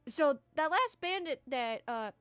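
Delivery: Ravine briefs the party, exasperated and loud; a timid NPC losing patience over the fleeing bandit; frustrated Ravine. Acted. Timid guide Ravine tells the party, exasperated. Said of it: "he goes".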